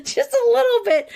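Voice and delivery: high-pitched, amused understatement; coy admission. Real, not acted. Host admits to being a little sarcastic, high and coy. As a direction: squeak it out high through a laugh.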